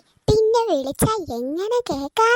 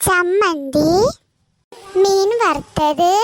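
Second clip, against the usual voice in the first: proud announcing; 4 dB louder, much slower than usual. Acted. Listing lunch dishes.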